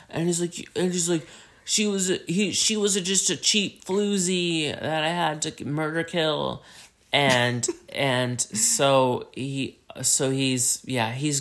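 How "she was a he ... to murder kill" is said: crazed confession. Acted. Acts out crazed man's confession.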